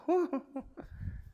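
high, soft laugh of wonder; light airy laugh, high above the speaking voice; awed laugh. Acted. Awed reaction on landing in throne room.

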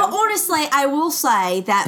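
put-on amateur British accent, protesting; not-quite-convincing British accent. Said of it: "when you start doing the accents".

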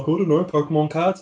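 lightly imitated unsure child; little kid. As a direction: raise the pitch for an undecided kid. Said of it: "And little kid's like".

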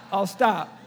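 chuckling apology, trailing down; laughing it off. Real, not acted. Pastor backing off his Michigan joke, laughing. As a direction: laugh while promising to quit.

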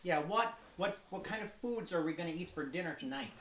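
lightly mimicked Dutch accent; lilting mock Dutch accent. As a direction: play someone from the Netherlands, accent and all. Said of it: "'cause I'm from the Netherlands".

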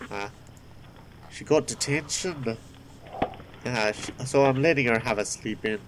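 a lightly voiced fatherly baker; mild, fond old baker talking to a girl; kindly baker. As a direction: gently explain to a wee lass.

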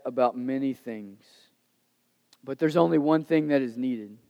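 low, calm and tender, unhurried; gentle Jesus. Retold or imitated. Jesus gently answers his worried friend Martha, calm and tender. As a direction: reassure her softly, like a patient teacher. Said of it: "Jesus' response".

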